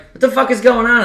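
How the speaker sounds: high, loud imitated disbelief; friend's outburst. Friend asking about the snow, high mock disbelief. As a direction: voice the friend's shocked question. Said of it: "And she's like".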